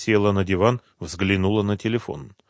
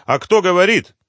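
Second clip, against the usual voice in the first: wary woman asking, pitched up; guarded voice on the phone; cautious question; 10 semitones higher, 7 dB louder than usual. A narrator's reading. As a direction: ask carefully who is calling. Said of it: "на всякий случай спросила".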